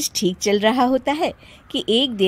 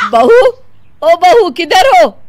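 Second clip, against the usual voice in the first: louder, higher urgent call; 7 semitones higher, 8 dB louder than usual. Acted. Mother-in-law calling bride urgently. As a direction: call across the house.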